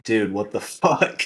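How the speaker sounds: slow, laughing disbelief; retold amused disbelief. Man recalling his silent reaction to an intruder, laughing disbelief. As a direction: let a laugh break into it. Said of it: "kinda laughing about it".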